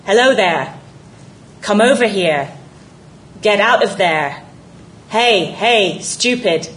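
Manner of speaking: a seal parroting a Maine man's calls; seal imitating a Maine accent. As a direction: Maine accent called out across the pond. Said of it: "speaking in George's unmistakable Maine accent".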